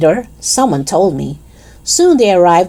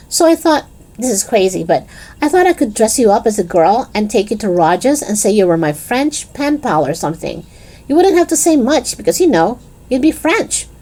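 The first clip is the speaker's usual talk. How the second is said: put-on higher-pitched, keen girl's voice; eager Lisa; 4 semitones higher than usual. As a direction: pitch the plan eagerly in a raised voice. Voices Lisa pitching her plan.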